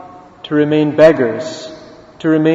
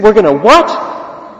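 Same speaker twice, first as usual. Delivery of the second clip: higher, drawn-out disbelieving question; incredulous echo; 5 semitones higher, slower than usual. Retold or imitated. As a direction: act stunned, stretching out the question. Beggar astonished by invitation.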